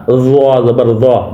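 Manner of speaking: زوا spelled out slowly, each sound drawn apart; careful Arabic letter sounds. Shown as a demonstration. Teacher spelling for pupils, slow and careful. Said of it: "ذال کو زوا نہیں پڑھ دینا".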